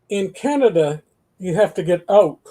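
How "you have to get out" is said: Canadian out. Shown as a demonstration. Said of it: "Whereas in Chicago".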